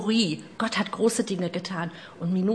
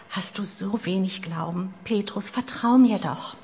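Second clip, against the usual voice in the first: gentle rebuke. Acted. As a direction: coax him to trust you. Jesus gently rebukes Petrus.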